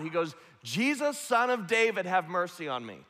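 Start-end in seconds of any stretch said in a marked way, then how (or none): 0.6-1.2 high-pitched call over a crowd; raised, stretched-out calling voice; crying out. Retold or imitated. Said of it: "so he cries out". 1.2-3.0 crying out. Retold or imitated. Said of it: "so he cries out above the noise of the crowd".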